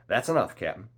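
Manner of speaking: high, loud, cheerful call; cheery shout. A narrator's reading. Long John accepts the captain's word, cheery shout. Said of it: "shouted Long John cheerily".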